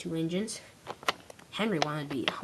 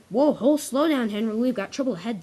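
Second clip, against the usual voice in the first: haul him back before trouble; calling out; 4 semitones higher, 7 dB louder than usual. Acted. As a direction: driver calls out a warning. Driver warns Henry of trouble.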